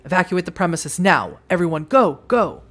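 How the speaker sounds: loud evacuation command; urgent order. Acted. The sheriff ordering everyone out of the building, urgently. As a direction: clear the room, fast.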